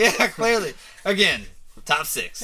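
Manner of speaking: high, loud laughing reply. Real, not acted. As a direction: laugh it off at yourself. Laughs at self-deprecating joke.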